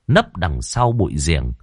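plain reading voice

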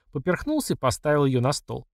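ordinary delivery, nothing marked

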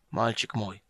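put-on a dying old man's weak voice; faint and frail, barely holding on. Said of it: "слабым голосом выговорил гном".

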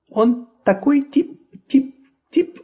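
high slow peeping chirps; peeping baby chick. A narrator's reading. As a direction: peep into his ear. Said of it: "она пропищала лисёнку прямо в ухо".

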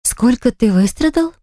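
grind it out through teeth; through gritted teeth. A narrator's reading. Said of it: "цедить сквозь зубы". (медленно, сквозь зубы, с издёвкой)

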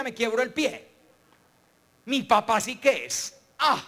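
lightly voiced gloomy boy, rattling off disasters; a hint of a whiny kid spiralling into worst cases; pessimist boy. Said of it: "cuando vio la bicicleta dijo".

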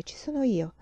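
gentle, soothing offer; conciliatory. Acted. Nurse soothing the mother, gently conciliatory. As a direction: reassure her kindly. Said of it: "aggiunse conciliante".

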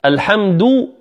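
slow الحمد with full round "du"; rounded lips. Shown as a demonstration. Teacher contrasting for listeners, rounded "du" in الحمد. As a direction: push lips out on the end of الحمد. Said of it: "بإخراج الشفتين".

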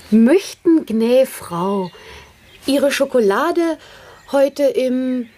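playfully posh maid asking madam; mock servant. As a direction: ham up the servant, lightly. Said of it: "Mach Kaffee, Sophie". (spielerisch übertriebenes Dienstmädchen)

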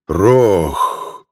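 loud growled bear name. A narrator's reading. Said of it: "Громко рыкнул он".

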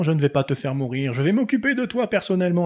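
voix de démon, plus aiguë sur la fin; voix démoniaque. Retold or imitated. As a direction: imite un démon menaçant. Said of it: "avec cette voix démoniaque, avec de l'écho et tout". (voix démoniaque avec écho)

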